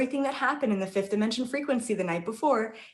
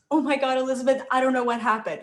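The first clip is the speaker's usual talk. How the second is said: retold freaking out; 4 semitones higher, 4 dB louder, faster than usual. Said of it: "freaking out".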